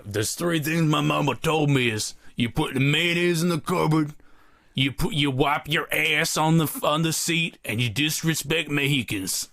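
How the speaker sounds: mock-solemn recital of family wisdom; quoting mama's rules. Telling his co-host the joke he planned, lightly voiced mock-wise recital. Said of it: "I was gonna be like".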